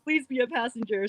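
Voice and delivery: excited yes through a laugh; laughing excitedly. Retold or imitated. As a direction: gush with laughter. Excitedly accepting a collaboration offer.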